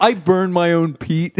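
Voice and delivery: a lightly put-on Scottish accent, smug; smug Scottish local, lightly voiced; mock Scottish accent. Hipster Highlander boasting to the tourist, in a light Scottish accent. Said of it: "she's like".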